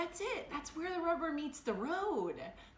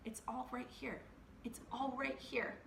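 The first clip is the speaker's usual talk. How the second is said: much softer, calm reassurance; gentle soothing; 10 dB quieter than usual. Retold or imitated. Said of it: "and they were like".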